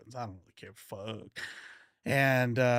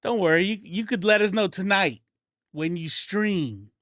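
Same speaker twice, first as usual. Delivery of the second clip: imitating Jon Stewart; 6 semitones higher, 5 dB louder than usual. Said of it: "He was like".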